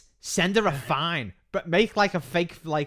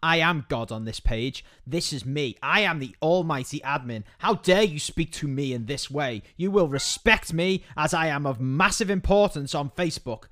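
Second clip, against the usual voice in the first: mock pompous admin. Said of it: "been really obnoxious and been like".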